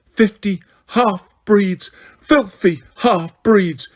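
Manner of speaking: high, slow, loud hysterical scream. A narrator's reading. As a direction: scream the insult in panic. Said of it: "she screamed".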